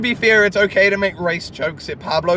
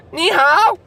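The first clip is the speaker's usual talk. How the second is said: Pablo; 10 semitones higher, 4 dB louder than usual. Retold or imitated. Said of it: "walks up to the guy at the counter and says".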